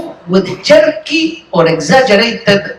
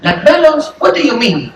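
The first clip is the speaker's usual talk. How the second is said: put-on confused little kid; 2 semitones higher than usual. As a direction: play the innocent son, baffled. Kid voiced asking father.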